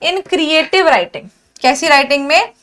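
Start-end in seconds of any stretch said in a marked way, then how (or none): 0.0-1.3 In creative writing said slow and clear, each word apart; correct version, slowly spelled out. Shown as a demonstration. Teacher giving students the corrected phrase, slow and clear. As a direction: lay out In creative writing slowly as the right answer. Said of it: "क्या होगा?".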